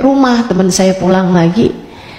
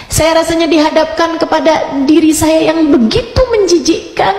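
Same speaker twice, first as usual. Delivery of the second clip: slow, drawn-out words climbing higher; retold emotional confession; 3 semitones higher than usual. Woman confessing to her Ustazah how she wept, emotional retelling. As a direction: let the remorse build, pitch rising as words stretch.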